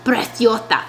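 Preciosa lisped, "preth-YO-tha"; overdone Castilian lisp on Preciosa; thick lisped accent. Retold or imitated. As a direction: mimic a thick Spanish th in Preciosa. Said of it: "made the accent on that one word".

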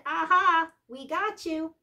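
high, triumphant gotcha; mock gotcha. Host voices the internet catching Norwegian out, high gotcha.

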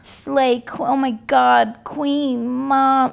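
lightly imitated gushing fan; a hint of an overexcited stan; mock stan gushing. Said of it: "like, the stan language".

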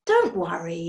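reassuring nanny, gently firm; kindly and comforting. A narrator's reading. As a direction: soothe them like a nice nanny. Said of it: "a kind voice like a nice nanny's".

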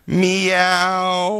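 high, stretched mock meow. Mocking how she meowed, high drawn-out. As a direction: meow it like her. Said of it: "She just went".

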